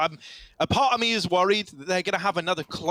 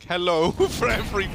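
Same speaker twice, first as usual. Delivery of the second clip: badly faked Swedish accent, breaking into laughter. Co-caster imagines a man faking being Swedish, hopeless Swedish accent. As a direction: attempt a Swedish accent and fumble it. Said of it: "I can't do a Swedish accent".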